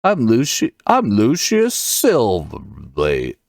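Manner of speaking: half-remembered, lightly voiced fighter; Lucius Silverblade. Shown as a demonstration. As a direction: feel around for the fighter's voice. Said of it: "he was like".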